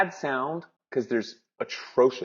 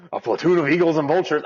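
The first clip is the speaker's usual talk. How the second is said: hammed-up news anchor; 3 semitones higher, 5 dB louder, faster than usual. Shown as a demonstration. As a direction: overplay the dramatic trailer read. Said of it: "Am I supposed to be like".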